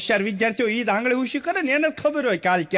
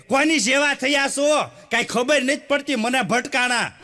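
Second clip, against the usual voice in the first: nagging wife; 2 semitones higher than usual. Retold or imitated. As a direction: scold the husband, mock exasperated. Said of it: "લગનના tone ફરી જાય".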